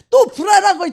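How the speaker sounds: loud high burst; shout. Real, not acted. Preacher telling of her worry, suddenly loud. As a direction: blurt it out loud.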